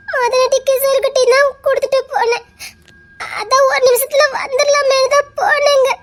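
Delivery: wife tearfully justifying herself; tearful explanation. Acted. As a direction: plead through the tears.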